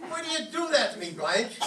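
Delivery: laughing complaint. Acted.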